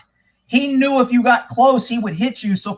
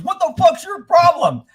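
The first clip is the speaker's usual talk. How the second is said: angry; 7 semitones higher than usual. Retold or imitated. Sheriff confronting, quoted.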